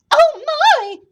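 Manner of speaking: put-on high, loud tiny old woman; high-pitched hammed-up shriek; startled old woman's cry. A narrator's reading. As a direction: cry out in fright as a little old lady. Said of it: "cried the tiny old woman".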